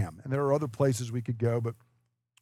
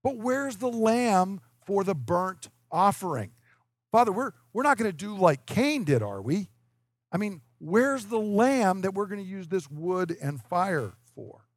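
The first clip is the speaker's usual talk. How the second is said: higher-pitched, questioning son; lightly voiced son; 5 semitones higher than usual. Isaac asking his father about the lamb, lightly voiced son. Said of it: "Isaac said".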